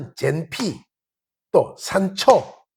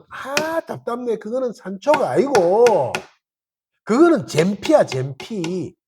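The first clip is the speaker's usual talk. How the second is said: mock frustrated insistence; 2 semitones higher, slower than usual. Person arguing over spice names, mild mock exasperation. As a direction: insist stubbornly, fed up. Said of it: "근데 그거 막 싸우거든".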